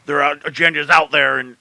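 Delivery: lightly voiced conspiracy ranter; a hint of a ranting radio host; Alex Jones. Wrestling podcaster warns of flat-Earth globalists, light ranting impression. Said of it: "we're getting the Alex Jones talk".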